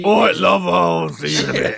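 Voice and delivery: a hint of a doting wife; mock wife voice. GM briefly voicing the player's wife, hammed-up wife.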